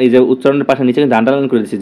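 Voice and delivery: ordinary talk, nothing marked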